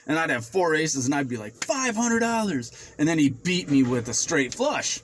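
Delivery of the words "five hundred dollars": high, slow, confident raise; cocky big bet. Retold or imitated. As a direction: lay down the bet like you can't lose. Retold big bet with four aces.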